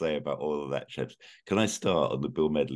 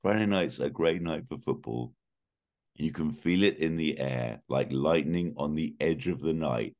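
reading song lyrics deadpan; dramatic reading. Pretend. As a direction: read the lyrics with mock gravity. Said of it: "I just want to read these to you".

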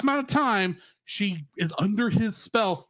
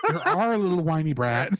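laughing scold; 3 semitones lower than usual. Real, not acted.

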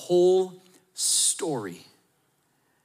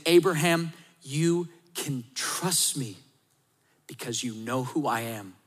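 tender voice of God; 3 semitones lower than usual. Pretend. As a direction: gently promise you can be trusted. God speaks gently to Abraham.

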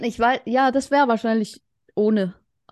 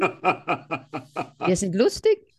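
stifled giggles; 6 semitones lower than usual. Real, not acted. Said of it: "Hört auf zu lachen".

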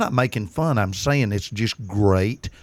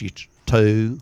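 Texan two. Shown as a demonstration. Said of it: "Goes like this".

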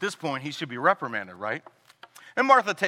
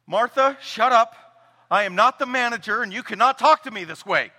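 higher, louder, scolding snap; mock rebuke; 5 semitones higher, 6 dB louder than usual. Hypothetical Jesus snapping at Martha, hammed-up rebuke. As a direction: put her in her place, mock stern. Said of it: "He could have been like".

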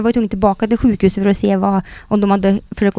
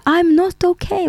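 much higher, strained mock cry of pain; retold pained yell; 10 semitones higher than usual. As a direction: replay the driver's scream of pain over the radio. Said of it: "bara skriker tillbaka".

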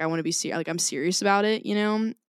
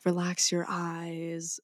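put-on soft, slow, botched Australian accent; failed Australian accent; 6 dB quieter, much slower than usual. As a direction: try an Australian accent quietly and miss it. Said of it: "That's not an Australian accent".

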